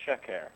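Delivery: SHEKER said as SHE-ker, weight up front; stress on first syllable. Shown as a demonstration. Speaker shows the Hebrew word for falsehood, first-syllable stress. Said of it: "with the accent on the first syllable".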